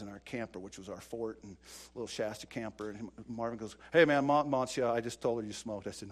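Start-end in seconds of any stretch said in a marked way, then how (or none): 3.9-5.9 loud tattletale call; tattling shout. Retold or imitated. Buddy tattling to the mom, loud call. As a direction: blurt it out to get him in trouble.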